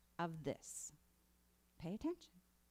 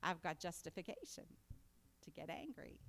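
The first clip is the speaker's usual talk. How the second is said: mock self-justifying; 3 semitones lower, 3 dB louder than usual. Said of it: "now we all feel".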